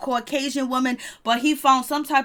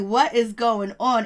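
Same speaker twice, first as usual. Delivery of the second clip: slow, drawn-out what is going on; slow disbelief; 3 dB louder, slower than usual. Retold or imitated. Reacting to the drama, slow drawn disbelief. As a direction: stretch each word in disbelief. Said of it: "I was like".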